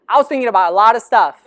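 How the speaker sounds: quick, chuckling delivery; laughing. Shown as a demonstration. Laughing to the audience before retelling it. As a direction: toss the line off with a laugh. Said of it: "Let me tell you that".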